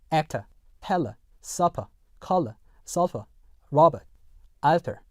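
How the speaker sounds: British accent, actor, teller, supper ending in a bare schwa; British non-rhotic. Shown as a demonstration. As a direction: end each of actor to alter on "uh", British, no R. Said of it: "영국 영어에서는요".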